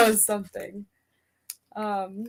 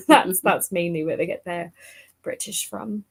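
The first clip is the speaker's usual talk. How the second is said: put-on generic British English; generic British accent; 3 semitones lower than usual. Shown as a demonstration. Livestream guest takes an accent request, in generic British. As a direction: speak in an everyday British accent. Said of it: "we'll start off generic British".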